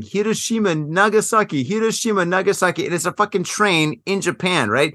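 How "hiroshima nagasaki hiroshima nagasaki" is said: high mocking chant of city names; a lightly voiced obnoxious streamer taunting commuters; mock yelling. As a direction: parrot the guy's taunting chant, pitched up. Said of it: "he's yelling".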